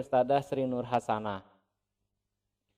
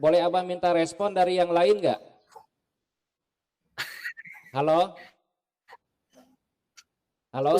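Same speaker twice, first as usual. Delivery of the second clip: choppy robotic glitching voice; breaking up like a bad connection; half robot voice; 4 semitones higher than usual. Real, not acted. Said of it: "Jadi suaranya seperti robot".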